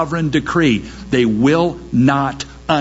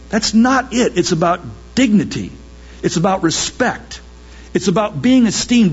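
higher, insistent, a touch heated; mock impassioned protest; 5 semitones higher than usual. Preacher voicing black athletes answering back, insistent protest. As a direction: press the point of dignity hard. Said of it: "And they would say".

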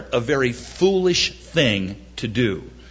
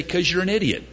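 deadpan put-down; 3 semitones higher, 4 dB quieter, faster than usual. Shown as a demonstration. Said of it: "just say".

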